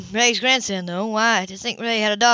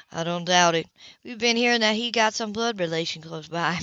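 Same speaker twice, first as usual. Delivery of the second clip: a hint of a lower, cool man's voice; lightly voiced Philip; 4 semitones lower, 3 dB quieter than usual. Philip deflects the gossip's probing, dry and lower. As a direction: keep it dry and guarded, slightly lower.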